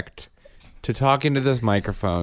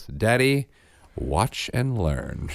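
put-on mature toddler; much slower than usual. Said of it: "mature voice I've ever heard".

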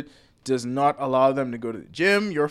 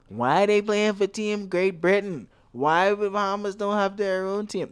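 whiny Bahamian; 5 semitones higher than usual. Retold or imitated. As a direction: whine it like a fed-up local. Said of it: "This is my impression of a whiny Bahamian".

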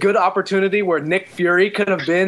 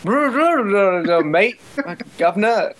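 hint of caricature British accent; mock British accent; much slower than usual. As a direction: playfully imitate a stereotyped British accent. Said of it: "Not all British people talk like".

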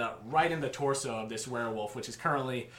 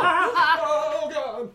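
surprised; 8 dB louder than usual. Real, not acted. Metal dice clatter loudly.

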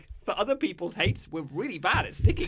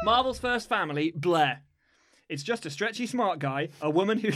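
action figure voice. Retold or imitated. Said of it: "That's quite good".

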